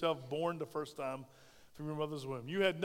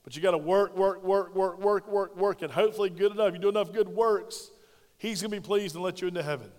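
mocking another church; 6 dB louder than usual. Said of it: "another denomination in town that tells you".

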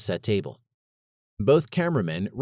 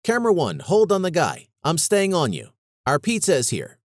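blurted; 6 semitones higher than usual. A narrator's reading. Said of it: "He blurted into his headset".

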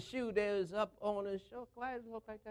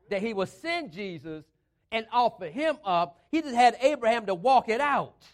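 emphatic preaching; 6 dB louder than usual. Real, not acted. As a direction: drive the sermon point home.

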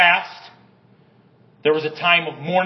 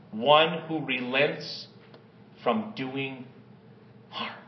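scripture reading; 2 semitones lower than usual. Acted. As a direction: read the verse gently and unhurried. Pastor reads Jonah verse aloud.

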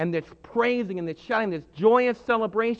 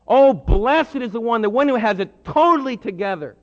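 exulting; 2 semitones higher, 6 dB louder than usual. Acted. Preacher exulting.

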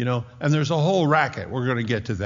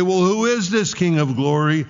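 loud, raised call from the wall; priest's challenge; 5 semitones higher, 5 dB louder than usual. Acted. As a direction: throw the question down to the priests below. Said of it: "what's getting screamed on the walls".

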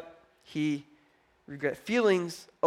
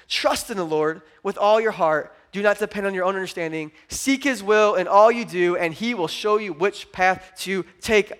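scripture reading; 4 dB louder than usual. Acted.

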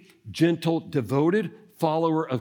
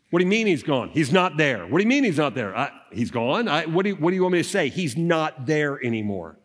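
guards and priests. Acted. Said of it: "it was gonna sound something like this".

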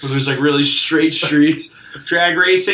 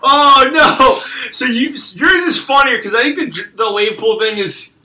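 giddy; 8 semitones higher, 4 dB louder than usual. Real, not acted. Still laughing high.

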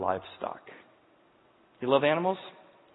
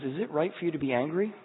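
softer, gentle question; tender God; 3 semitones higher, 4 dB quieter than usual. Acted. Preacher voicing God gently questioning angry Jonah, tender and softer. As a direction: ask it kindly, coming alongside. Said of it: "God tenderly comes alongside him".

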